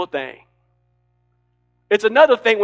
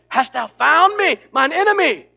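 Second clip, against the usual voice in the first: accusing king; 6 semitones higher, 5 dB louder than usual. Retold or imitated. Preacher voicing Ahab as he meets Elijah, lightly accusing.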